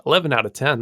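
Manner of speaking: surprised echo. Real, not acted. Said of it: "That's a high number".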